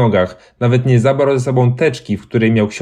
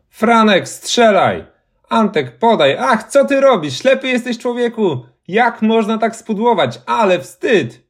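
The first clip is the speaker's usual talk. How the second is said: football fan yelling; 12 semitones higher than usual. A narrator's reading. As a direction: shout at the players like a fan. Ghost cheering a football match.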